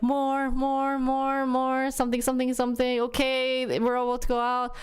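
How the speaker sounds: urging nurses. Retold or imitated. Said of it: "they're like".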